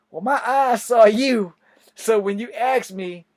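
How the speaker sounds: retelling an earnest defense; earnest protest. Retold or imitated. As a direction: plead your case firmly. Defending himself to sergeant.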